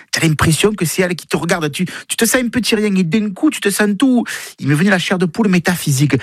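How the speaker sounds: voix de conteuse légèrement jouée, souvent plus aiguë; Marie Zora. Acted. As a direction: raconter comme un personnage, perché par moments. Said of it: "c'est Marie Zora qui raconte". (récit de personnage, registre plutôt haut)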